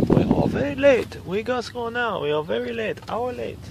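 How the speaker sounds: high-pitched mock Asian accent, kept soft; imitating an Asian accent, pitched far up and quiet. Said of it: "the Asian guy's going".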